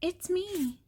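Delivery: high, light cow voice; cow character. A narrator's reading. Cow revealing who is under the mask, high-pitched. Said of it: "says the cow".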